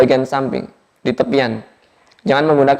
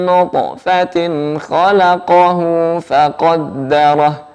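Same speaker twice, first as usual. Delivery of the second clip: slow, chanted Quranic recitation; much slower than usual. Shown as a demonstration. Teacher models the verse for students, slow chant. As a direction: recite it slowly, each letter placed.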